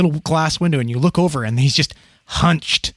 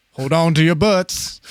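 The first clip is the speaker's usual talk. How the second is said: movie quote; 3 semitones higher, slower than usual. Retold or imitated. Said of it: "gonna go back to Jurassic Park".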